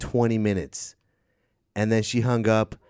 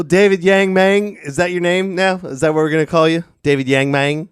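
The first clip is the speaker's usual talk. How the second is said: announcer hype; 7 semitones higher, 6 dB louder than usual. Acted. Host hypes caller's new name.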